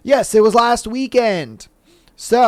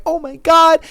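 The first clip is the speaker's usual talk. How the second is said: mock delight; 8 semitones higher than usual. Girlfriend delighted.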